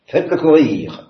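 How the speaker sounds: loud, high command; barked order. Acted. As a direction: order the boy to run. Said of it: "ordonne le général". (ordre crié par le général)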